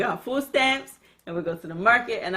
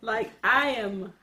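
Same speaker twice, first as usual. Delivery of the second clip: talking while stoned; stoner. Real, not acted. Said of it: "This edible kicked in fast".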